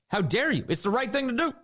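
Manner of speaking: imitating a haughty rebuke; indignant scolding. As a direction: scold him as Obama, finger wagging. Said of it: "he said".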